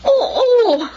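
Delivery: loud frustrated yes; exasperated yes. Acted. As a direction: blurt it out in exasperation. Exasperated mother answers loudly.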